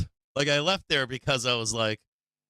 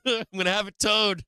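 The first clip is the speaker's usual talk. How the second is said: mock Boston driver yelling; 8 semitones higher than usual. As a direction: bark it like an angry Boston driver. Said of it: "he's like".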